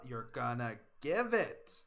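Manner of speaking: slow, firm motherly command; stern order. Acted. Mother cutting off her daughter, slow and stern. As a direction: weigh each word as an order.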